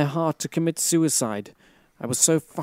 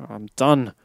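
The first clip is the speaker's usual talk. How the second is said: reading that drops into low resignation; giving up; 3 semitones lower than usual. Real, not acted. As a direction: read on, then quit wearily. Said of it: "That's the sound of me giving up".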